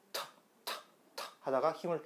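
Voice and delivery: 터 with a strong release; 터 said with full force; 터 punched clearly; firm t. Shown as a demonstration. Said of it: "다시 한번 제가 해볼게요".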